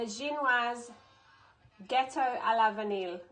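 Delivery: lightly put-on French accent for a dish name. Shown as a demonstration. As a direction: have a careful go at a French accent. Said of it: "French accent on here".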